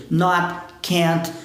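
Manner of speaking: "Not, can't" with final Ts unreleased; held T. Shown as a demonstration. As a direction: clip the T at the end of "Not" and "can't". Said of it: "a gente utiliza esse T preso".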